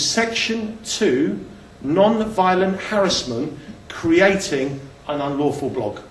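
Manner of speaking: slow, deliberate recital of a legal charge; reciting a charge. Retold or imitated. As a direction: spell out the charge slowly, phrase by phrase. Reciting the formal charge against him.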